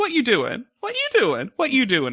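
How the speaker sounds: squeaky, very high, silly sing-song voice. Retelling the sisters' inside joke on the phone: imitating a funny family voice. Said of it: "in a funny voice saying".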